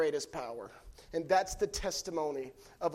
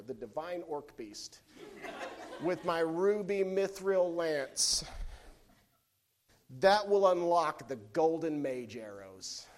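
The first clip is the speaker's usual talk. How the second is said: laughing through tears. Real, not acted. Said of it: "now I won't cry anymore".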